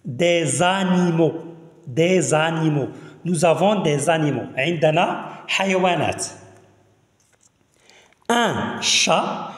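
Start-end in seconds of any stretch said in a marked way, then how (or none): 0.1-4.6 Des animaux linked as 'dé-zanimaux', slowly; slow teacher's model of Des animaux with a z link; liaison in z. Shown as a demonstration. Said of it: "كنديرو ز، لو سون ز". 8.3-9.5 ان شا as two separate slow syllables; silent final t. Shown as a demonstration. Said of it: "تي لماذا لا تنطق؟".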